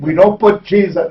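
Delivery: imitating the Italians' accent; a hint of an Italian lilt; lightly done Italian accent. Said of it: "they say with that accent".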